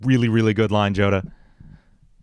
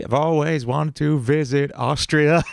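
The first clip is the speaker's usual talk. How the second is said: villain voice; 5 semitones higher, slower than usual. Acted. Comic villain voice line.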